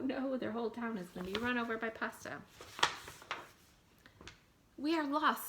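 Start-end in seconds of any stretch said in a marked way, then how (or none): 4.8-5.5 despairing cry. A narrator's reading. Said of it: "said the people".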